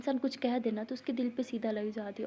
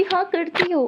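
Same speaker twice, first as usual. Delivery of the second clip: higher and louder, curt accusation; sharp retort; 7 semitones higher, 10 dB louder, slower than usual. Acted. Husband accusing his wife mid-fight, loud and curt. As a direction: throw it back at her. Acted couple quarrel.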